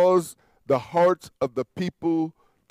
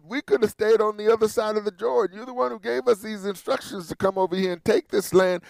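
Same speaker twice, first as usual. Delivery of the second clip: Joshua's plea; 3 semitones higher than usual. Retold or imitated. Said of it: "he's crying out to Jehovah".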